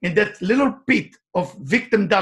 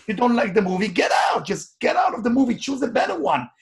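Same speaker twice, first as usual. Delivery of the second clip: higher, punchy "get out"; rallying call, pitched up; urgent exhortation; 4 semitones higher than usual. Real, not acted. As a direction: push the crowd to walk out. Urging audience to leave bad life.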